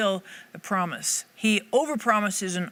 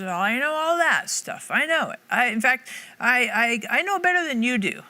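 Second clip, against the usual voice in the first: higher, building emphatic assurance; insistent knowing; 5 semitones higher, 4 dB louder than usual. Acted. Jesus telling us he knows our shortfalls, insistent. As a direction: insist on it, pitch lifting high.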